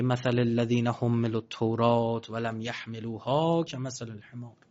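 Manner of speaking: slow Arabic recitation fading to near silence at the end; Quran recitation. Acted. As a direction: intone the verse slowly and reverently.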